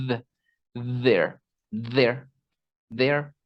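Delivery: "there" with a buzzing, voiced th. Shown as a demonstration. Teacher drills a voiced th for students. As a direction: vibrate the th in "there". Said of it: "ni siquiera se puede pronunciar bien si no hay vibración".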